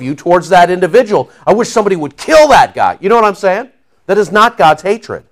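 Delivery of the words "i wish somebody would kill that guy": "I wish somebody would kill that guy" as a quick, raised, spiteful outburst; mock hateful shout. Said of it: "vile and bile comes out".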